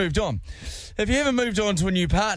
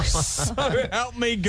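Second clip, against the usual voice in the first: imitating scary voice; 3 semitones higher, slower than usual. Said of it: "What's your scary voice?".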